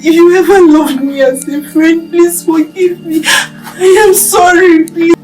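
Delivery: pleading apology. Acted. Wronged friends hear her apologise, tearfully pleading. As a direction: beg forgiveness, close to tears.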